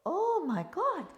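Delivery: slow, high, loud shocked wail; mock dismay, high, loud and slow; drawn-out "oh my God". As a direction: stretch out the horror at your side view. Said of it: "You turn sideways".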